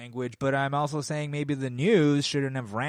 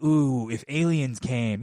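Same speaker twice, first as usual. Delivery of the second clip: mock dreamy quote; 5 dB louder, slower than usual. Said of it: "there's always the stories of".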